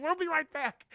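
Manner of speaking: high, loud acted parting shout; hurried call-out. Goliath grabbing her to fly off, acted call-out. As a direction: call it back over your shoulder.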